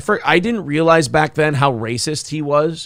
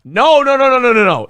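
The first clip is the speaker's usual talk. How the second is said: emphatic no; 7 semitones higher, 4 dB louder than usual. Real, not acted. Rejecting news headline.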